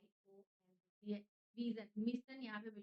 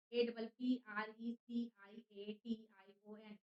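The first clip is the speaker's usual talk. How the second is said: slow, firm letter-by-letter spelling; 6 dB louder, slower than usual. Shown as a demonstration. Teacher spelling appreciation slowly for memorising. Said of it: "तोड़ तोड़ के याद रखिए".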